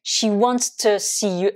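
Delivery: "she wants to see you" said slowly and deliberately; slow demo. Shown as a demonstration. Teacher giving an example to French learners.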